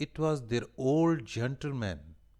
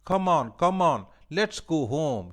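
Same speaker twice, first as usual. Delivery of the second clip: happy; 5 semitones higher, 7 dB louder than usual. A narrator's reading. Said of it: "she said".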